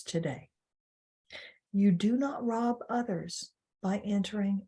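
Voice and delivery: measured prayer in spaced phrases; prayer reading. Real, not acted. Webinar host opens with a prayer for listeners, prayer reading. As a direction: read a solemn affirmation, pausing between phrases.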